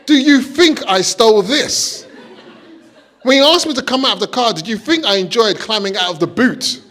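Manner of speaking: building from mild to loud and high, laughing; rising indignant rant at the officer; indignant retort. Retold or imitated. Retorting to police, escalating.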